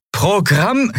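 high-pitched shouted order, cut short; desperate high command; urgent command. A narrator's reading. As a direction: call the order out, rising. Repeats command, cut off by the threat.

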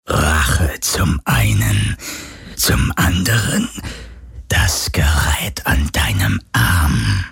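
slow, low, cold whisper; ghostly voice. A narrator's reading. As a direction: hiss it out like a phantom. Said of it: "fragte die Geisterstimme".

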